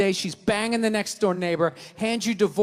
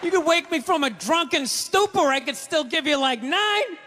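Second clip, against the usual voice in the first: sarcastic; 4 semitones higher than usual. Retold or imitated. His mocking reply.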